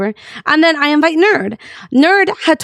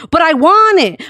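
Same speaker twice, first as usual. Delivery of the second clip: higher-pitched, imitated childish whine; mock whining; 4 semitones higher than usual. Friend wants rank without working, mock whiny. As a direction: whine it, making fun of him. Mimicking friend's repeated complaint.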